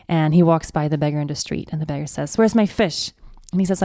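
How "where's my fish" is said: demanding. Retold or imitated. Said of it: "he's demanding the fish".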